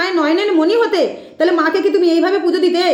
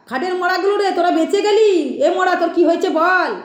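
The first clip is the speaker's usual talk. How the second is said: Krishna Kali; 3 semitones higher than usual. Retold or imitated. Critic showing how the possessed medium addresses devotees, mock scolding chant. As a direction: lightly mimic an angry deity speaking through a medium. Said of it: "Krishna Kali মা এসে এরকমভাবে কথা বলে".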